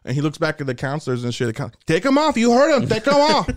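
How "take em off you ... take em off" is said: barked order. Retold or imitated. Counselor backing inmate.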